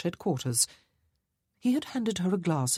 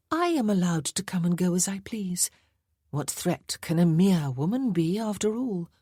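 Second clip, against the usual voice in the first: smiling sweetly; 4 semitones higher than usual. Acted. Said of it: "She smiled sweetly".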